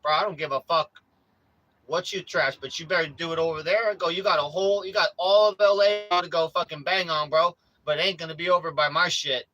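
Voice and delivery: loud, heated street warning to a stranger; retold angry warning. Telling off trash-banging guy.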